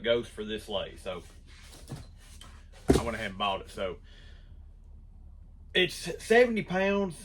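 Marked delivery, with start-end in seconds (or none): 5.7-7.2 a bit winded from carrying weight; out of breath. Real, not acted. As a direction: talk while catching your breath, with pauses. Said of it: "I'm a little out of breath".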